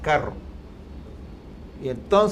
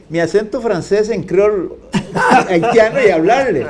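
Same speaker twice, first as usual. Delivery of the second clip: laughing while telling; 3 semitones higher, 6 dB louder than usual. Real, not acted.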